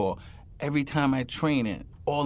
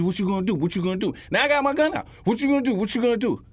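mock taunting challenge; 8 semitones higher, faster than usual. Acting out cop-suspect standoff.

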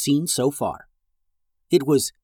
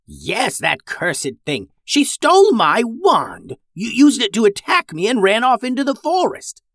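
put-on old witch voice; 9 semitones higher, 3 dB louder than usual. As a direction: rail against the thief.

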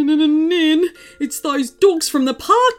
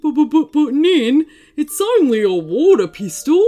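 higher, louder flustered stammer; nervous stammer; 7 semitones higher, 6 dB louder than usual. A narrator's reading. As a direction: stumble over the first word, flustered. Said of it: "stammered the man".

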